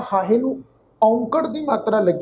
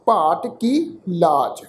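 drawn-out, measured chant of the verse; scripture read like a path; slow scripture recitation; 2 semitones lower, much slower than usual. Acted. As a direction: intone each word slowly, reverently. Recites scripture line slowly.

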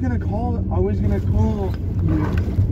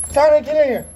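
loud, higher-pitched command; calling the dog in; 5 semitones higher, 6 dB louder than usual. Real, not acted. Owner ordering the dog indoors, loud call. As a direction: call sharply to a dog outside.

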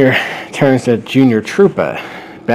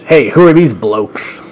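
louder, higher, slowed mock English accent; 4 semitones higher, 7 dB louder than usual. Chris the baby spots strangers, in a mock English accent. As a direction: put on a playful English accent. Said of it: "was raised in England".

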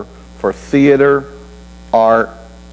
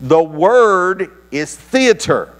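much higher, slow, spelled-out mock yell; 9 semitones higher, slower than usual. Frustrated subscriber yelling at the operator, much higher and slow. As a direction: spell it out like a furious caller, pitched way up. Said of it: "he's yelling".

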